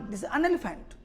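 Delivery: an elephant stretched slowly and softly; slow demo. Shown as a demonstration. Teacher correcting elephant to class slowly. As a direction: take it slowly. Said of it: "तुमने बोला elephant".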